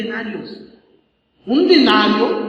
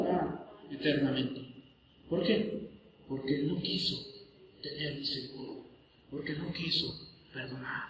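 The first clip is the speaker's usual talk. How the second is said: hushed solemn; 6 semitones lower, 18 dB quieter than usual. Real, not acted. Preacher warns the congregation, hushed and solemn. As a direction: drop to a near hush, softer. Solemn warning after judgment verse.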